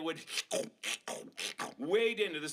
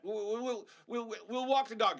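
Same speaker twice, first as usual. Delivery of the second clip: put-on pleading child; 6 semitones higher than usual. Kid begging mom to let them. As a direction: beg like an eager kid.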